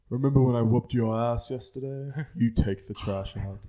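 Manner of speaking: put-on deliberate, commanding English-accented baby. Baby ordering father around, put-on English accent. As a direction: turn the chore back in mock-English. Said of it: "where you got that voice from".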